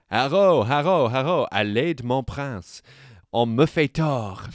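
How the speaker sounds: loud Norman French cry; mock shout. Host voicing a Guernsey woman shouting in the road, loud proclamation. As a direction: call it out in the road like a public plea. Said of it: "shouted her bit".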